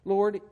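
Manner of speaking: "Lord" said high and loud as the right word; stressed correction. Shown as a demonstration. Preacher correcting his reading aloud, stressing "Lord". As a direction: punch "Lord" to fix the misreading. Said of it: "the word is Lord".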